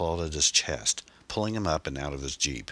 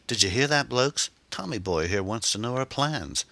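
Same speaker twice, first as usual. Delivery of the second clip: put-on English-accented gang leader, amused; 8 semitones higher than usual. A narrator's reading. Gang leader mocks the captive's question to his mates, amused English accent.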